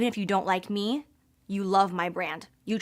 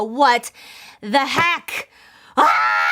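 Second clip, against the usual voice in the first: excited; 4 semitones higher, 6 dB louder, much slower than usual. Real, not acted. Overwhelmed showing the box.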